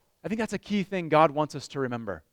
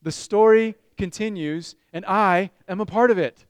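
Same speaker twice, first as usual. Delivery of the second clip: loud congregation call; 4 dB louder than usual. Shown as a demonstration.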